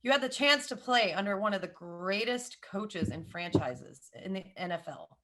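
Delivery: pained admission. Acted. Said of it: "it's gonna hurt me physically to say this".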